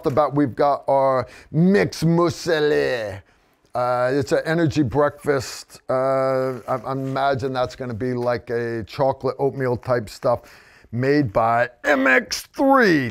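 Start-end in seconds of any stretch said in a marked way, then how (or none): 1.5-3.2 drawn-out mock redneck French; redneck French accent. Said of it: "redneck French accent that I can pull off". 11.8-13.1 hammed-up redneck French, stretched out; mock French with a redneck twang; redneck French accent. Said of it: "redneck French accent that I can pull off".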